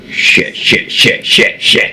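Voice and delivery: whispered panicked cursing. Retold or imitated. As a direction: hiss it under your breath in panic. Panicked muttering watching her run.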